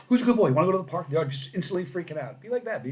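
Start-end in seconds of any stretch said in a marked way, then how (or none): 0.1-1.1 put-on high, loud baby-talk to a dog; high puppy-talk voice. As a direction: excite the dog. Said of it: "if you go".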